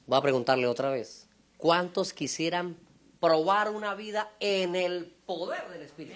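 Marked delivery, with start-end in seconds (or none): 1.6-6.2 slow, measured asking, rising at the end; deliberate repeated question. Real, not acted. Preacher checks the congregation understood the question, deliberate asking. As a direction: ask it slowly, word by word.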